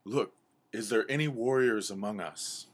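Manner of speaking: rallying call to the group; lightly voiced owl elder; wise owl. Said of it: "the wise owl says".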